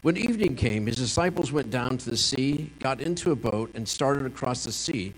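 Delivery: measured, formal Bible reading; scripture reading. Acted. Pastor reading John six aloud to the congregation, measured. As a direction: read the passage steadily to the congregation.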